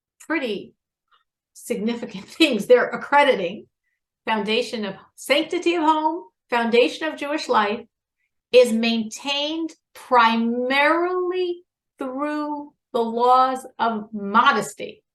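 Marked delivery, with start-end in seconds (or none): 4.3-14.9 very slow, measured, deliberate delivery. Quoting a statement of the sages to listeners, really slow. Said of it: "I said it really slow".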